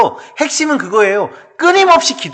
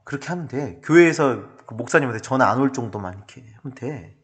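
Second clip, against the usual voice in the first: tag; 3 semitones lower, 7 dB quieter than usual. Acted. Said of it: "이렇게 세상이 우리에게 말하고 있어요".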